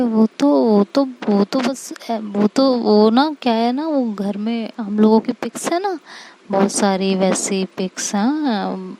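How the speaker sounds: halting, tripping over the words; flustered girlfriend stammering out an excuse; nervous stammering. Acted. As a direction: stall and stumble like you're hiding something. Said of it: "तो तुम हकला क्यों रही हो?".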